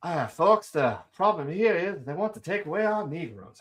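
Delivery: light mock Southern accent, unhurried; a hint of a Southern colonel drawl addressing folks; half-hearted Southern drawl parody; soft Southern drawl. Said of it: "I could do the soft Southern drawl".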